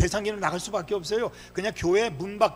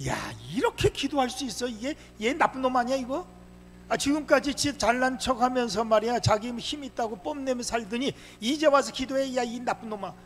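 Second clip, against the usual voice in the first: higher-pitched, indignant telling-off; mock scolding; 6 semitones higher than usual. Preacher voices a rebuke of Samson's late prayer, mock scolding. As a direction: act out an incredulous scolding.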